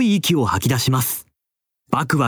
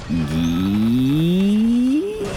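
very slow drawn-out creak, rising; door creak; much slower than usual. A narrator's reading. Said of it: "巨大な扉が開きました".

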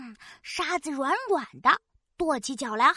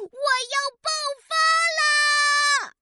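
angry shout; 13 semitones higher, 4 dB louder than usual. Acted. Exploding with anger, little volcano.

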